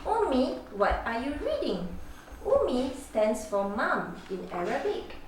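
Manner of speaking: lightly voiced child, curious and eager. Small child asking his mother about the book, lightly voiced and curious.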